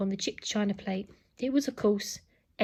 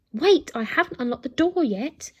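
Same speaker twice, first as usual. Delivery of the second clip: louder, higher scolding call; 4 semitones higher, 6 dB louder than usual. Acted. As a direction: call through the door. Nanny calls to robot.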